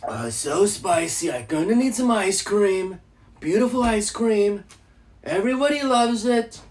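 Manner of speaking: lightly voiced Trump brag; a hint of Trump selling ice cream; mild Trump impression. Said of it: "Do Donald Trump".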